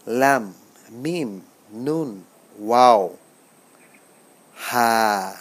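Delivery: slow, stretched "লাম, মিম, নুন"; Arabic letter pronunciation. Shown as a demonstration. Teacher leading learners through last letters, slow recitation of "লাম, মিম, নুন". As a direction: hold "ওয়াও" and "হা" full, one at a time. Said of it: "আপনারা আমার সাথে পড়ুন".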